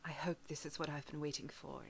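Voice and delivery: soft, hushed hope; hopeful whisper. Acted. Zalora privately hoping for good news, hushed. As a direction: murmur it to herself. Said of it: "And she's like".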